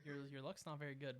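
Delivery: whisper. Real, not acted. Whispered tease.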